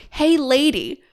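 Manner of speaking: playful retold shout, slowing on the plea; re-enacted shouting. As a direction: call after someone running off. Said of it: "literally shouting".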